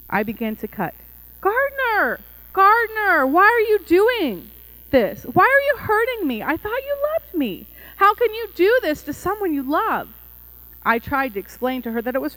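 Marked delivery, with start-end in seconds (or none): 1.4-10.1 high, loud, wailing plea; anguished Little Tree. A narrator's reading. Little Tree begs the gardener to stop cutting, anguished. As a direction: cry out in hurt and betrayal, very high.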